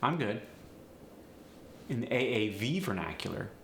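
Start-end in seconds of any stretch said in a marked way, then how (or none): 0.0-0.4 standard American English, even and neutral. Shown as a demonstration. Teacher showing the standard version for comparison, standard American. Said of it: "in standard American English, I might say".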